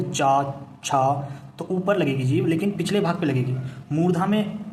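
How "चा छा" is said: चा and छा said slowly, tongue on the back of the palate; चा, छा said clearly for the class to copy; palatal sound demo. Shown as a demonstration. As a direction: sound out चा then छा as separate syllables. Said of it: "आप बोलकर देखो".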